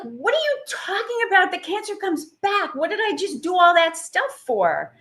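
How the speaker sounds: high, disbelieving retort; incredulous. Retold or imitated. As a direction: replay your stunned disbelief at the doctor. Retold outrage at the oncologist.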